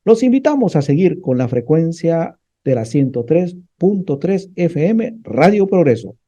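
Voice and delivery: radio announcer closing a programme; radio sign-off. Real, not acted. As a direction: address the listeners and sign off with emphasis. Radio host addresses audience, signs off.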